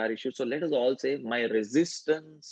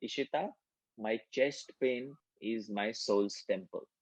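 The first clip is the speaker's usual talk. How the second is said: softer, slowed-down affirmation demo; 6 dB quieter than usual. Shown as a demonstration. Teacher demonstrating the affirmation to the group, soft and slow. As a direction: murmur it gently, like a mantra. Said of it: "So what you do is".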